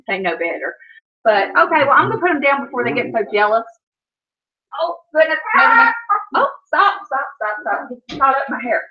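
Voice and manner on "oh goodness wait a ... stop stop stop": high startled cry, then quick stops. Real, not acted. Owner startled as the dog catches her hair, high yelp. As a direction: yelp as your hair gets caught.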